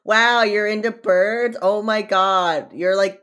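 slow, high, gushing mockery; mocking impression. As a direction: gush like a dopey admirer. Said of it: "he's like".

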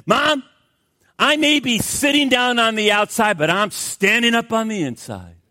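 a lightly voiced defiant little boy; little boy crying out. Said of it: "the little boy cried out".

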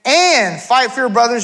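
"And" punched and held at the start; stress on And. Shown as a demonstration. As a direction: hit "And" hard, then carry on reading. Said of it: "there's that word again".

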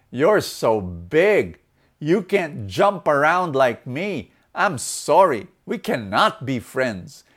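slow, emphatic turn-down; lightly acted rejection, each phrase spelled out; rabbit's rebuff. Rabbit turns down the elephant, mildly acted slow refusal. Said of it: "looks at the elephant and says".

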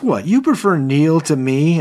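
high, loud affronted question; imitating a wounded boss; mock outraged disbelief. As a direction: act out indignant disbelief. Insecure boss hears staff prefer rival.

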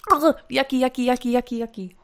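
real grossed-out chant, trailing off; disgusted. Real, not acted. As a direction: rattle it off in revulsion, fading. Reacting to foul taste.

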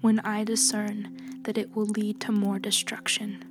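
soft, steady, grave woman healer; quiet judgment, measured and cold; calm stern healer. Acted. Healer's quiet whispered reply.

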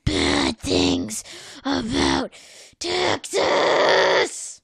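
half-hearted shout, rising on Texas; mock angry retelling of Sandy; mock furious Sandy. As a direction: play an indignant squirrel defending home. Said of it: "she's not quite that furious".

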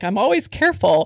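ordinary talk, nothing marked

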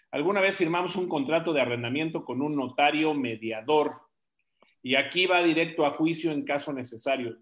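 careful second reading, clearly separated words; relecture posée. Real, not acted. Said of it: "a ver, otra vez".

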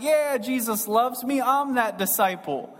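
a light, cocky "I'm that dude" boast; smug John. Retold or imitated. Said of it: "the other side of the coin is like".

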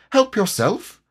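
very high little offer; high-pitched storybook piglet; small piglet voice. A narrator's reading. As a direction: pipe it up as a tiny animal. Piglet offers acorns nervously.

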